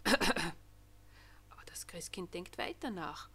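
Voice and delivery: slow, hushed whisper. A narrator's reading. Narrator whispering while the Christ child keeps thinking. Angel waits unnoticed, hushed.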